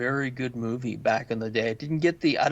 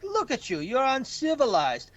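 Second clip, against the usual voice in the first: lightly voiced wrestler, raised pitch; calm taunt; 10 semitones higher than usual. Wrestler taunting a screaming kid, mock haughty. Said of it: "He's like".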